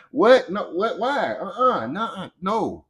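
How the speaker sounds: a hammed-up huffy refusal at being bossed around; mock indignant refusal. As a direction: play it as a playful, offended balk.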